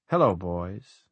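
a hint of sultry blonde star, rising at the end; lightly voiced vamp greeting; Mae West. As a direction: ventriloquist doll sounding like an old film siren. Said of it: "Sounds like that old blonde chick".

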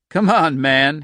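loud, high, taunting dare; a touch of amused mockery; half laughing. A narrator's reading. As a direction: goad him, nearly laughing. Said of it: "he said, half laughing".

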